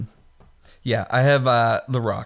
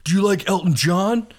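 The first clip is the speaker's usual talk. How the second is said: movie quote; 7 semitones higher, 4 dB louder than usual. Retold or imitated. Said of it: "when he's like".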